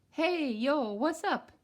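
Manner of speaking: high, loud street-style hey yo; cool kid greeting. Acted. Friends Max and Angel hailing Carmelita loudly. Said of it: "Max and Angel".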